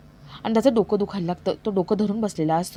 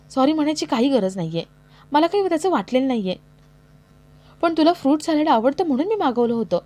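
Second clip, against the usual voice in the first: hurt reproach; 5 semitones higher than usual. Acted. Ramya hurt, questions Parth.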